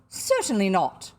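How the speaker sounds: loud, emphatic refusal; exclaimed refusal. A narrator's reading. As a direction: shut the idea down firmly and loudly. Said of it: "she exclaimed".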